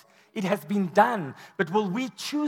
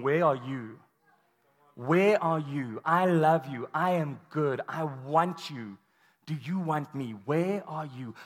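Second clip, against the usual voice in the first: tender plea; 5 semitones lower than usual. Acted. God voiced asking the room.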